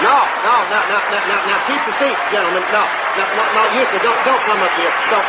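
flustered, laughing no's; embarrassed hero laughing off a standing ovation; laughing modesty. Acted. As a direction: wave off the fuss through laughter. Crowd applauding, modest refusal.

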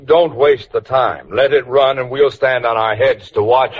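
dry, sarcastic jab. Acted. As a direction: needle him with mock advice. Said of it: "Never mind the sarcasm".

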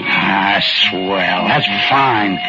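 put-on a shy old-timer, grateful and unsure; timid little old man.

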